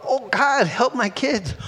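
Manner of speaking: acted plea, pitched high; crying out in fear. Parent praying for the kids, crying out in fear. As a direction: plead upward to God, lightly acted. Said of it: "How many have cried out in fear?".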